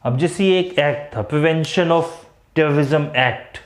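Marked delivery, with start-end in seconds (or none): 1.3-3.6 slow, each word drawn out; slow spelled out. Shown as a demonstration. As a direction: read the full name slowly and clearly. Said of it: "ये short form है". (धीरे-धीरे पूरा नाम)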